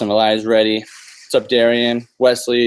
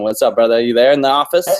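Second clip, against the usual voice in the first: raised voice calling upstairs; yelling across the room; 4 dB louder than usual. Real, not acted. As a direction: call out to a friend in another room. Host calls out to upstairs office.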